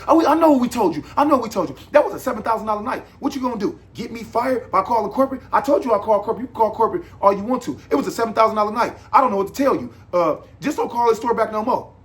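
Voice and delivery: high, loud mocking imitation of the manager; irritated manager lady brushing off a complaint, mocked high and loud; mimicking the manager lady. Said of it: "And I said".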